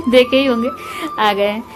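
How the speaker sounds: amused laugh. Real, not acted. Laughs showing husband's outfit.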